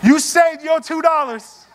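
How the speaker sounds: amused chuckling delivery; laughing. Real, not acted. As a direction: laugh at your own joke as you say it. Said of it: "laughing at the cheap passenger".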